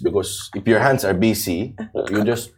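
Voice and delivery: lightly put-on Filipino accent; casual, mock Filipino accent. Shown as a demonstration. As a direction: explain it in Filipino-accented English. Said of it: "Yeah, Filipino".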